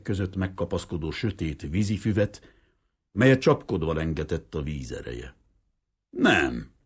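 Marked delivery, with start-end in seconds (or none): 6.1-6.7 shouted no. Acted. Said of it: "ordította bele a vénember fülébe".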